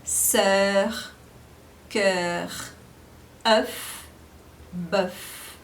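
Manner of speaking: sœur, cœur, œuf, bœuf with rounded eu; French eu sound. Shown as a demonstration. Teacher modeling eu words to students. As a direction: round the lips for each eu. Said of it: "que dá o som de E".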